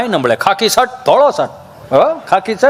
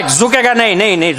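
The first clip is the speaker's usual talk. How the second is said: Pushpa dialogue. Retold or imitated. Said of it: "બાપુ dialog એ match થાય".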